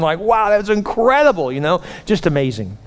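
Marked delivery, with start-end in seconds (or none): 0.2-1.5 lightly acted admiration, higher voice; excited praise. Teammates high-five Jack, excited praise. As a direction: gush a little, pitch lifted. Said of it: "They were so excited for him".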